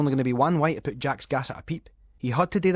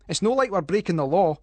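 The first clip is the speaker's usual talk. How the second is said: put-on boyish bravado; 7 semitones higher, 6 dB louder than usual. The speaker voicing boyish bravado.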